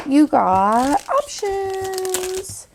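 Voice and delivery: high, drawn-out sing-song delivery. Real, not acted. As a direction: stretch it out playfully and high. Playful sign-off on product options.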